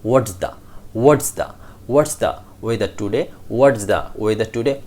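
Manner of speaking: "What's the" joined into one word; connected words. Shown as a demonstration. Teacher drills connecting words into a big word, linked. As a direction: glue "What's the" together as "whatsduh". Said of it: "connect each word in a big word".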